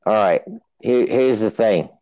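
lightly attempted British accent; bad English accent. Host hamming up English for his co-host, bad English accent. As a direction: have a go at a shaky-grasp English accent. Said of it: "I don't know an English accent".

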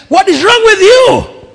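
high, loud, urgent question; loud concerned question. Retold or imitated. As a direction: demand an answer loudly. Preacher asks the grieving man.

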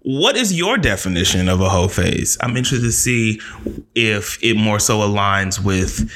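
measured, mock-formal announcer delivery; put-on host voice. Podcast host asking listeners to comment, put-on announcer voice. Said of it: "Why am I doing this voice?".

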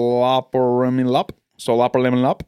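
name said in reverse; backwards speech. Shown as a demonstration. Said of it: "Now say it backwards".

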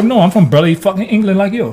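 British accent. Shown as a demonstration. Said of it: "Do that accent again".

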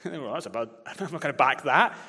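chuckling through the words; laughing aside. Real, not acted.

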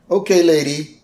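lightly voiced annoyed driver; gruff bus driver. Bus driver to the lady blocking traffic, mock confrontation. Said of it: "And the guy's like".

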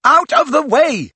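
high, loud yell; urgent yell. A narrator's reading. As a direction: yell to clear a path. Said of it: "yelled Harry".

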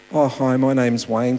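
casual, run-together hello; real-life introduction. Acted. Evangelist approaching a stranger in real life, casual and brisker. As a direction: open a pitch to a stranger without ceremony. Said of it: "in real life? What does it look like".

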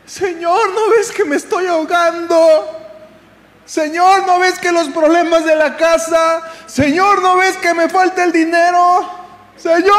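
high, insistent cries to the Lord; desperate pleading. Acted. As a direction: wail each complaint as an urgent appeal. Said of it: "en nuestra desesperación". (ruego desesperado y agudo)

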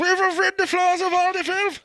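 robot voice. Pretend. Roomba voice bit.

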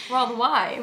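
mangled Aussie vowels; overdone mock-Australian twang; Australian accent. Shown as a demonstration. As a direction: push "wave" toward Australian "wai". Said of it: "but that's Australian".

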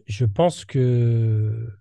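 slow, losing the thread mid-sentence; trailing off. Real, not acted. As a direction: drift off as the thought slips away. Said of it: "je sais plus ce que je voulais dire".

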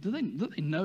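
low, quiet indignant muttering; inner thought, muttered. Pretend. Preacher voicing a listener's hidden offended thought, quiet muttering. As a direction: grumble it under your breath, offended. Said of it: "this is what you're thinking".

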